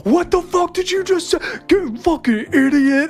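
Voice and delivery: high, squawked mock abuse; mocking outrage. Quoting friends who ripped on them, high mocking outrage. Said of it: "you guys were like".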